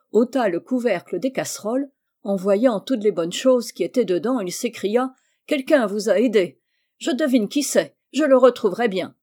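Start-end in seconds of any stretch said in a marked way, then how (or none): 5.5-9.1 rising anger, louder and faster; furious king. Acted. Furious king threatening the cook, angry rising threat. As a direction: threaten her, building to a snap. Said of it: "Le roi, furieux".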